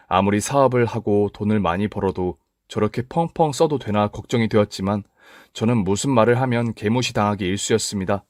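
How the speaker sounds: ordinary delivery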